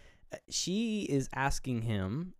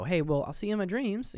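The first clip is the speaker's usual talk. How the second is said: a higher, friendly see you in my dreams; mildly nice goodbye; 8 semitones higher than usual. Retold or imitated. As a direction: say it kindly as she leaves. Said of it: "just kinda nicely".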